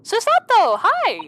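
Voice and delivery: light up at seeing her; excited greeting. Real, not acted. Player spotting Susato on screen, excited greeting.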